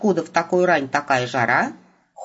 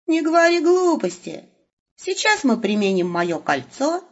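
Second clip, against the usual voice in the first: higher, brisk voice of the caring, gruff Wolf; brusque Wolf; 8 semitones higher than usual. A narrator's reading. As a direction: talk down the fuss as the practical Wolf. Wolf's voice held.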